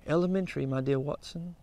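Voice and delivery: put-on a light, fading British accent. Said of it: "if you'll forgive my poor British accent".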